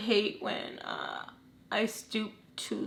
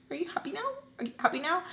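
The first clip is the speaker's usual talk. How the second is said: hurt mom; 8 semitones higher, much faster than usual. Retold or imitated. Crying mom confronts daughter.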